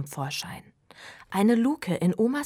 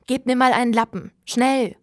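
loud and fast, higher, demanding a rag; urgent call; 6 semitones higher, 11 dB louder than usual. A narrator's reading. Sprotte calling for a rag, loud and hurried. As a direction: bark for a rag in a hurry.

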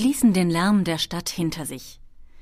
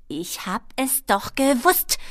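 slow, higher irritated kobold voice; hissy kobold anger; 6 semitones higher, 4 dB louder, slower than usual. A narrator's reading. Kobold rounds on Ben, spitting mad. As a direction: draw out the annoyed complaint. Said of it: "fauchte sie".

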